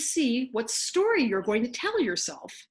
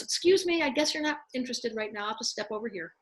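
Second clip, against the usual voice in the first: politely withdrawing soul. Acted. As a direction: play the soul meekly bowing out. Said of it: "And then your soul goes".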